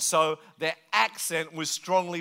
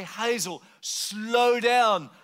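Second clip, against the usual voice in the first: exasperated plea; 4 semitones higher, much slower than usual. Retold or imitated. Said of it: "I say".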